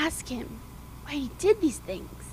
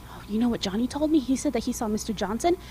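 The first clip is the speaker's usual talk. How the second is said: gossiping mom; 3 semitones lower, faster than usual. Acted.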